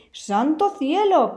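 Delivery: drawn-out, high "¡Santo cielo!" of dismay; old wolf gasping in mild shock; slow exclamation. Acted. Wolf startled by the hungry sheep, slow high exclamation.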